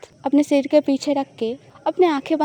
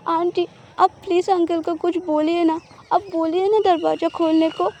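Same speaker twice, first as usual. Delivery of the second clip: higher, pleading sob in his sleep; crying voice; 4 semitones higher than usual. Acted. Husband overhears wife crying in her sleep, tearful pleading. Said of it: "रोने वाला voice में बोल रहा था".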